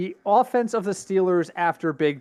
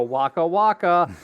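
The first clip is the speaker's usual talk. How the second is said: mock Fozzie joke; 3 dB louder, slower than usual. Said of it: "he was gonna go".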